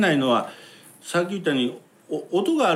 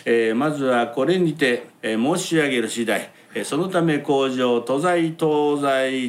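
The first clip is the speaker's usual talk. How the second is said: kabuki declamation; slower than usual. Shown as a demonstration. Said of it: "東西って言って".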